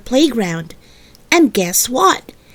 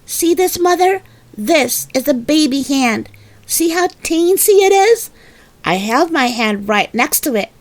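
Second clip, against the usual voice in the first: put-on little girl demanding; 5 semitones higher than usual. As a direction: build up till you nearly shout. Girl showing hands.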